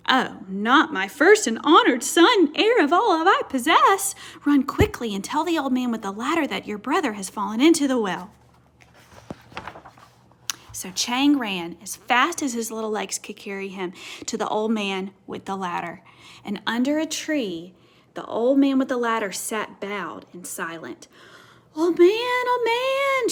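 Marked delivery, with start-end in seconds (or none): 0.1-8.3 alarmed mother. Acted. Mother alarmed, sends Chang running. 21.8-23.3 high, loud calling out; boy yelling for help; shouting. Acted. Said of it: "shouted Chang".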